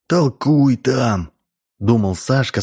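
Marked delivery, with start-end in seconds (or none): 0.1-1.3 slow drawn out scorn; scornful thought. A narrator's reading. Boy dismisses the lady's lecture in his head, slow scorn. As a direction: sneer it to himself, slowly.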